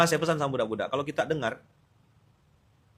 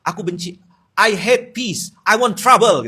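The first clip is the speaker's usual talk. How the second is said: mock drama; 6 semitones higher, 10 dB louder, slower than usual. Mocking an Instagram caption.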